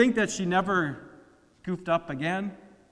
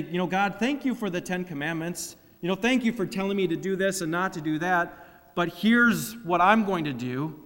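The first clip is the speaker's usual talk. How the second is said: self-righteous prayer. Retold or imitated. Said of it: "started thinking so much and say".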